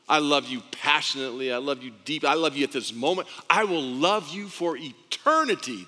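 building from earnest to fervent; passionate fatherly love. Acted. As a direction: declare love with mounting conviction.

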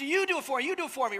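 put-on demanding little girl passing it to dad; daughter's voice. Dad imitating his daughter's constant demand. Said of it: "that's what her voice sounds".

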